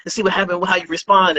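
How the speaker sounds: high mock voice of the prankster friend; friend explaining. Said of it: "You go".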